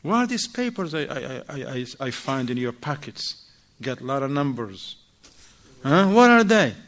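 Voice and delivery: wife grilling husband about numbers in his pockets; interrogating. Retold or imitated. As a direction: grill him about the papers. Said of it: "She's checking him down".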